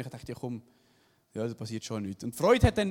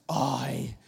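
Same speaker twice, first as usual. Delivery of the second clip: relieved sigh; 6 semitones lower than usual. Retold or imitated.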